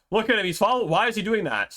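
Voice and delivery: high, loud, incredulous; rising disbelief, almost yelling. Real, not acted. Villager keeps following.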